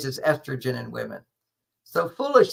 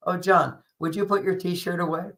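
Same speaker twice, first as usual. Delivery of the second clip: imitating an easy, undemanding ask; simple casual request; 3 semitones higher than usual. Wife asking John about the T-shirt, simple casual request. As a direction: toss it out lightly, expecting a yes. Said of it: "The same tone of voice".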